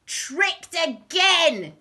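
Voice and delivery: loud, slow high outcry; drawn-out howl of defeated villains; exasperated crooks. A narrator's reading. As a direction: cry it out in frustration. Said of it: "said the two bad men".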